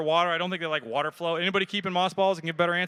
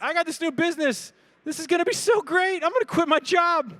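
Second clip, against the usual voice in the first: much higher, eager mock voice; mock excited; 11 semitones higher than usual. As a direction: play the giddy new business owner. Imagined self, hopeful beginner.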